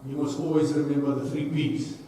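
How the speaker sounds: mock Afrikaans-accented rugby coach laying down the three P's; Afrikaans English accent. Speaker imitates the Afrikaans teammate's best English in a hammed-up Afrikaans accent. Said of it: "he had to pluck out his best English".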